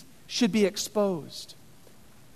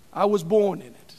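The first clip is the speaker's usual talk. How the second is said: Bane quote; 4 semitones lower than usual. Retold or imitated. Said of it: "That's what he said".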